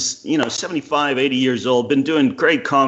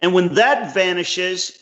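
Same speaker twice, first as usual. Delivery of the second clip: higher, slow, weighty quoting voice; slow, raised voice quoting Cleese to his friend; 6 semitones higher, slower than usual. Retold or imitated. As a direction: lay out Cleese's words slowly and gravely. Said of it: "and he, he said".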